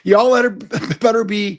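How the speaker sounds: put-on light Southern accent breaking into a laugh; a hint of a Southern accent, laughing through it; joking Southern accent. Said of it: "I'm using my Southern college ba-, accent".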